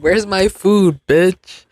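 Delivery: lightly voiced indignant cat demanding dinner; angry cat. Voicing the cat waiting at the kitchen table, mock angry. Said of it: "Angry as hell. She said".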